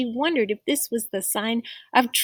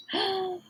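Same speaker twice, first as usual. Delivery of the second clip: gasp; 9 semitones higher, 8 dB quieter than usual. Acted. Rufus hears something in bushes.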